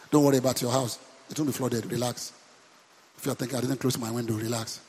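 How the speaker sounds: hushed, calm aside to the congregation; quiet, gentle "relax"; soft reassurance. Real, not acted. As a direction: drop the voice and soothe them.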